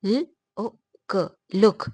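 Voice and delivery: 'लुक' split into ल, ओ, क; short clipped vowel, then blend into 'लुक'; short vowel demo. Shown as a demonstration. Teacher showing the short sound in 'लुक', sounded out. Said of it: "ये हमें short देता है".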